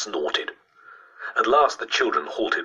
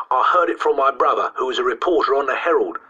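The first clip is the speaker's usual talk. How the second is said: higher, louder dignified schoolboy; with dignity; 8 semitones higher, 4 dB louder than usual. A narrator's reading. Boy citing his reporter brother, dignified. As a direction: stand on your dignity as a boy. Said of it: "said Christopher with dignity".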